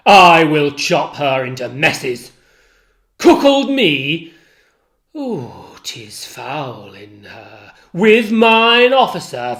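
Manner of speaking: jealous Othello raging at Iago; enraged Othello. Acted. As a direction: let the fury burst through the lines.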